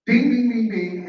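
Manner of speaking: quick mock winner's bell dings; imitated bell. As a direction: call out dings for a right answer. Host signals a correct answer.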